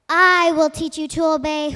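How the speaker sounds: roaring wind, loud and stern; booming thunder and wind. Acted. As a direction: roar it like a harsh wind. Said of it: "roared the wind".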